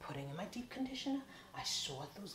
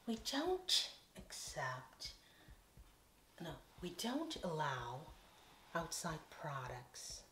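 stylist; 3 dB quieter, slower than usual. Retold or imitated. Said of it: "She said".

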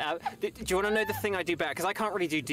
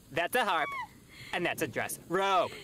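shoulder angel voice; 3 semitones higher than usual. Retold or imitated. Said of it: "Kronk shoulder angel voice".

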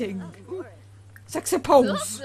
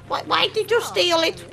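higher-pitched mock complaint; mock upset; 4 semitones higher than usual. Woman whose treadmill was stolen, mock upset. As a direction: play a mildly wronged game character. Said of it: "she's like".

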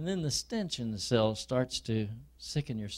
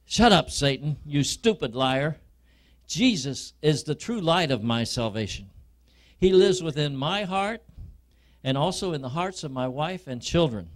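louder, firm defiance at Satan; defiant rebuke; 2 semitones higher, 4 dB louder than usual. Acted. Believer rebukes Satan in a louder, defiant voice. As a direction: stand up and rebuke the liar.

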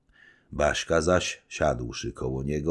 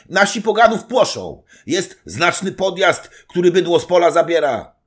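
higher, louder breathless report; urgent servant report; 10 dB louder than usual. Acted. Servant reporting the raid to the knight, loud. Piętka voiced by reader.

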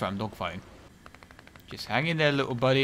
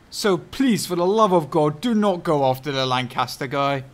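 pleading; 4 dB louder than usual. Real, not acted. Begging teammate to leave Lancaster.

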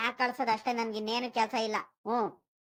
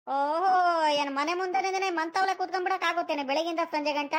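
higher-pitched, mildly indignant protest; indignant retort; 4 semitones higher than usual. Acted. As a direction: push back at the scolding, voice raised in pitch. Retorts to wife's scolding.

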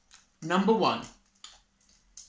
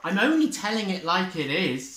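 bossy Badger; 5 semitones higher, 5 dB louder than usual. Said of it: "said Badger".

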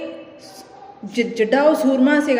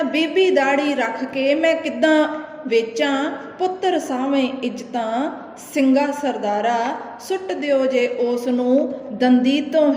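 poem recitation; slower than usual. Acted. Teacher reciting the old man's plea to the chief, slow.

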